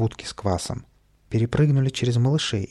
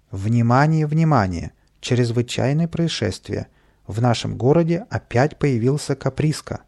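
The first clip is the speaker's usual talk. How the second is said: raised, emphatic emergency announcement; тревожное объявление; 3 dB louder than usual. A narrator's reading. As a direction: announce an alert over the radio. Сержант объявляет тревогу по рации. (официально, тревожно объявляет)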